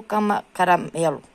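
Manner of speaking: false start, then the whole word; tripping over words. Real, not acted. Crocheter naming yarn colours to viewers, tongue-tied. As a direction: stumble on the word and restart it. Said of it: "hoje eu tô engasgando".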